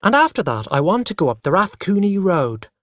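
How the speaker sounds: put-on child talking loudly. A narrator's reading. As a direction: press on over the interruptions. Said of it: "I said loudly".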